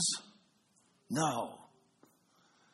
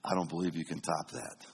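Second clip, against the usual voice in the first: cocky boast; 8 semitones lower, 4 dB quieter than usual. Retold or imitated. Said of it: "I looked him in the eye and I said".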